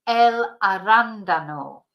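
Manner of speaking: "arándano" stressed on RÁN; stress on second A. Shown as a demonstration. Teacher repeating the Spanish word after explaining the accent, stressed RÁN. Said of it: "there's an accent on the second A".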